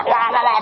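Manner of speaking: imitating a woman scolding, high and loud; mock scolding babble. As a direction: rattle off a nagging scold. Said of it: "她来骂我了".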